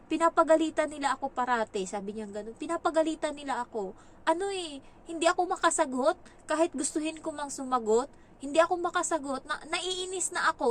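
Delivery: voicing the upset child. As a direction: complain like a scolded boy.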